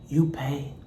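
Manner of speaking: low, soft "you pay"; half-heard demand in the dark; landlord's voice. Retold or imitated. Landlord in the bedroom doorway, low and menacing. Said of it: "this how it sound".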